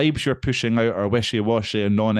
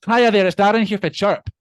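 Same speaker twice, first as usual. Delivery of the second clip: higher, louder, sing-song sales call greeting; chirpy cold caller; 9 semitones higher, 7 dB louder than usual. Retold or imitated. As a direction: play a cheery phone salesman cold-calling. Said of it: "I'd be phoning people up going".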